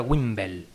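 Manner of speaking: "Wimble" said "wimbel", E before L; Wimbledon as pronounced. Shown as a demonstration. Explaining the swap, "Wimble" said "wimbel". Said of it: "se invierte la L y la E".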